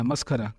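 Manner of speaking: मस्खरा with an aspirated ख; मस्खरा said as mas-kha-ra; maskhara with kh. Shown as a demonstration. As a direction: put a kh sound in मस्खरा. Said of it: "ख लगाते हैं".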